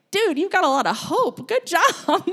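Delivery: high-pitched, laughing congratulation; amused praise. Retold or imitated. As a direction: praise the kid through a chuckle. Teacher praises child, laughing.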